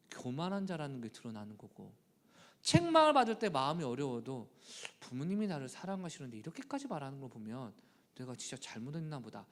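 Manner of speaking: ordinary talk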